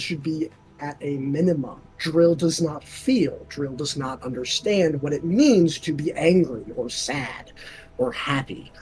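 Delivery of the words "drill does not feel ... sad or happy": flat monotone drill voice. Shown as a demonstration. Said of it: "Do a drill voice".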